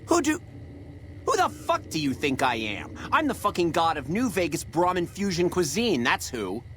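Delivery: furious chef rant. Acted. Chef rants at the new kitchen hand, furious and high. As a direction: rage like a chef who thinks he's a god.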